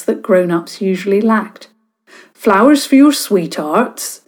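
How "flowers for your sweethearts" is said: grinning tease. Acted. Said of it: "he asked with a grin".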